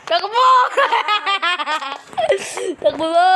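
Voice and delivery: excited shouting mid-chase; laughing while running. Real, not acted.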